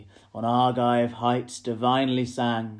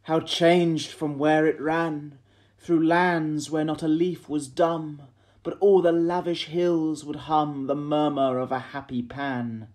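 raised, ringing lament; crying out; 5 semitones higher, 5 dB louder than usual. A narrator's reading. Poet looks back along the changed path, crying out. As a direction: call it out higher and louder, in verse. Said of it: "and crying".

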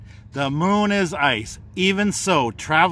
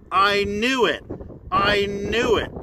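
higher, eager beaver voice; excited beaver; 6 semitones higher than usual. Acted. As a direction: bounce it out like a gleeful beaver. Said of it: "the beaver says".

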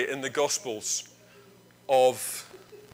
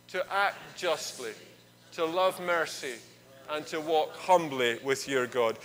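congregational recitation; 2 semitones lower than usual. Acted. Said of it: "Could we say this together".

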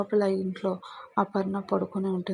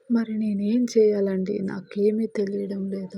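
crying helplessly. Acted. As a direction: wail helplessly. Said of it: "మళ్ళీ ఏడుస్తూ ఉంటుంది". (నిస్సహాయంగా ఏడుస్తూ)

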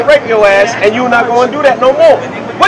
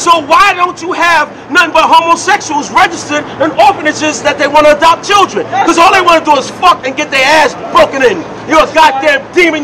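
shouting. Real, not acted. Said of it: "You're shouting at me".

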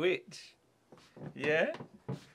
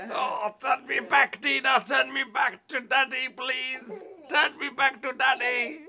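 pleading shout; 3 semitones higher, 5 dB quieter than usual. Pretend. Dad pretends he was turned into a bug.

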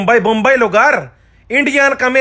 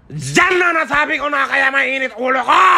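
exasperated outburst. Real, not acted. Answering why he's always angry, in an exasperated outburst. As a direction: yell it out, fed up.

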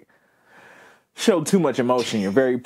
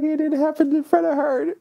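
mock panicked friend; 13 semitones higher than usual. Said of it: "That should have been comedy".

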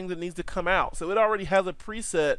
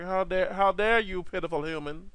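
mock angry robot; 2 semitones higher than usual. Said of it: "He's angry".

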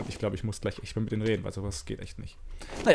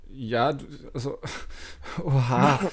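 digitally distorted voice; voice changer; slower than usual. Real, not acted. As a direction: speak through a voice changer. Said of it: "ich mach mal den Stimmverzerrer kurz aus".

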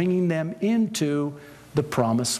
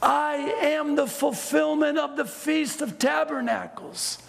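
high, half-sung proclamation; Jesus shouting in the temple, high and loud; 11 semitones higher than usual. Pretend. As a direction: call out the promise over the crowd. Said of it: "What's he shouting in a loud voice".

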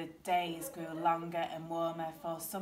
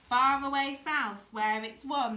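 raised storybook call; calling back; 5 semitones higher, 6 dB louder than usual. A narrator's reading. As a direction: answer from high overhead, starting loud. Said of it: "they called back".

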